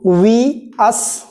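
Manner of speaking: spaced-out list, each word lifting; drawn-out teacher's roll-call of words; list recitation. Shown as a demonstration. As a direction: recite word by word for pupils to memorise. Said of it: "कहना, कहना बोलना है".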